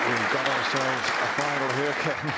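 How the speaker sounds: excited. Real, not acted. Final turns competitive, commentator enthuses.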